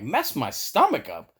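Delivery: mock-indignant repeat, pitch jumping within the phrase; retold "are you kidding me" echo; incredulous echo. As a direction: throw the question back in disbelief. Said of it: "I'm like".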